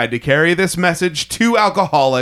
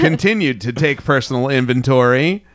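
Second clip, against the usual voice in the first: solemn reading voice. Shown as a demonstration. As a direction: read it like a sacred creed. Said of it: "I should have read them all like that, that voice".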